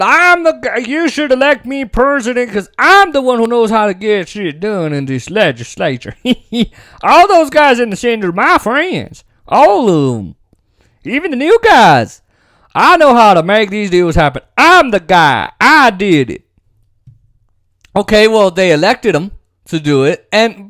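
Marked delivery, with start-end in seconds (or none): 0.0-6.1 mock boastful president. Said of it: "he's the guy that said". 7.0-16.4 mock boastful president. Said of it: "he's the guy that said".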